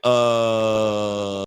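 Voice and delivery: long drawn-out "uhhh"; imitated stalling noise, held on one note; stumped "uh". Litigant caught without the document, stumped drone. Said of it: "And I was like".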